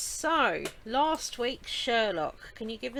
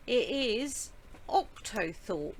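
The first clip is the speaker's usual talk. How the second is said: slow announcement; slower than usual. Shown as a demonstration. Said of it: "word of the week".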